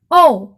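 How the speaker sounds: a held, clear ओ; model vowel sound. Shown as a demonstration. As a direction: show the children the ओ sound. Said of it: "यह उच्चारण करना है".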